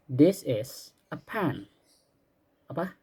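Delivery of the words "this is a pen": slow and clear, word by word; slow model sentence. Shown as a demonstration. Teacher modeling a sentence for pupils to repeat, slow and clear. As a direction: spell it out slowly for the class to copy. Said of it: "Repeat after me sekarang ya".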